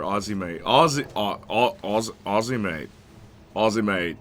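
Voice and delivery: put-on tentative Aussie accent, trying it repeatedly; bad Australian accent. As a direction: have a clumsy go at Australian. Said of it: "not very good with the accent".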